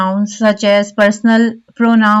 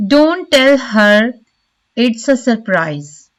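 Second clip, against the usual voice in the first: slow "Don't tell her", leaning on "her"; stress on "her"; slower than usual. Shown as a demonstration. Teacher giving an example sentence, stress on "her". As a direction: give "her" weight, then pause before the rest. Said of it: "The stress is on the word her".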